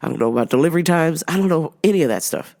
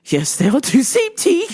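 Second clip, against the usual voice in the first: high mock-accented parroting through laughter; pitched-up teasing imitation; mocking echo; 9 semitones higher than usual. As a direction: parrot the customer back, laughing. Parrots the customer's voice back.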